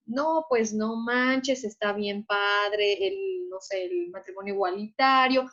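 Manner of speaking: imitando a un chavo casual, muy lento; habla coloquial. Retold or imitated. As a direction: exagera la jerga juvenil arrastrando las palabras. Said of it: "esas son palabras de uso cotidiano". (maestra imita cómo escriben los alumnos en lenguaje cotidiano)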